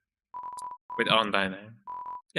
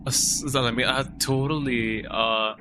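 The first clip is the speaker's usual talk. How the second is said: put-on valley girl accent. Shown as a demonstration. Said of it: "of a Bali girl accent".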